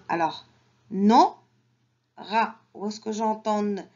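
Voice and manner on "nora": Nora broken in two, a loud No, pause, ra; split into syllables. Shown as a demonstration. Teacher helps children find the n, Nora split by syllable. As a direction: punch No in Nora, then ra apart. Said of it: "Dans la première syllabe".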